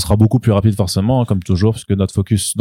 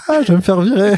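nervous laugh; 11 semitones higher, faster than usual. Pretend. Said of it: "Le, le rire nerveux de".

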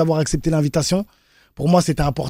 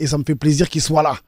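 ordinary delivery

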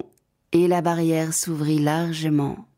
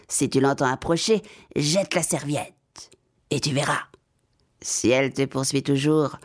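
cat's voice; 2 semitones lower than usual. Acted. Cat advises girl, far voice.

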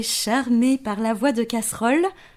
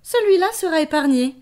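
lion voice; 5 semitones higher than usual. Acted. Lion speaks.

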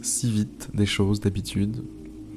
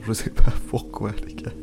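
laughing; 3 dB louder than usual. Real, not acted. Bursts out laughing from joy.

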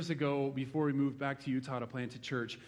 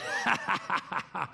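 imitated laughing of a crowd of college kids; staccato mock laugh; mocking laughter; 2 semitones higher than usual. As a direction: laugh like kids pointing at their victim. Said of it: "They're like".

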